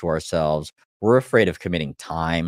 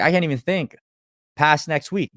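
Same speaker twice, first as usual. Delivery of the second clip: lightly voiced stuck client, pitched much higher and a bit louder; overwhelmed client; 9 semitones higher, 4 dB louder than usual. A coach imitating an overwhelmed client, higher and a touch louder. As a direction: toss it up high like a harried person who can't plan ahead.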